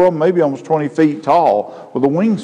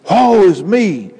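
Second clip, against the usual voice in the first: louder, slow cry of woe; anguished lament; 6 semitones higher, 4 dB louder, slower than usual. Acted. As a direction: wail it slowly as one struck by holiness. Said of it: "man, he is smitten".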